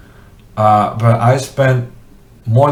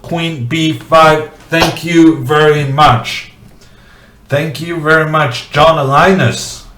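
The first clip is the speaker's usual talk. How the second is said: higher, lightly hammed auctioneer thanks; playful auctioneer wrap-up; 5 semitones higher than usual.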